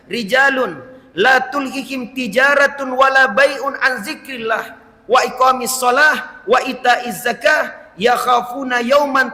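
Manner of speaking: slow chanted Arabic verse; Quranic recitation. Acted. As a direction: recite it like tilawah in the mosque.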